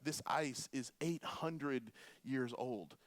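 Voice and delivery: put-on slow, light Spanish accent. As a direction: imitate a tour guide with a hint of a Spanish accent. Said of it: "in this beautiful Spanish accent".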